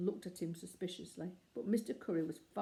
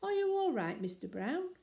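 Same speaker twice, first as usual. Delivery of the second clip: called out high and loud through the box; calling out; 10 semitones higher, 5 dB louder than usual. Acted. Mister Gruber calling into the box to Mister Brown, raised voice. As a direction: call into the box to reach him. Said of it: "called out".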